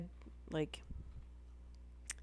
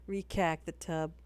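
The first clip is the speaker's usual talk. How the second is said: imitating Boston girls; Boston accent with a flattened vowel; mock Boston accent. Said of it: "making fun of the Boston".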